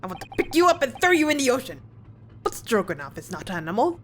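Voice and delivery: mock Russian sailor, fast grumbling threat; bad Russian accent. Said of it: "my very bad Russian attempt".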